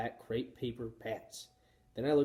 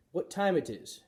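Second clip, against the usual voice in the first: wrong learner question; 6 semitones higher than usual. A narrator's reading. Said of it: "asked Missus Nasiri".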